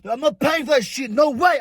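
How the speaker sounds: high-pitched indignant retold refusal; re-enacted outraged protest; raging. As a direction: act out refusing to pay. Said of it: "I'll start raging".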